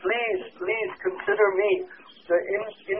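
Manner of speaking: softly voiced, slow plea; gently imploring, lingering on the please; begging. Devotee begging Srimati Radhika to accept him, understated pleading. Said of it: "I'm begging you".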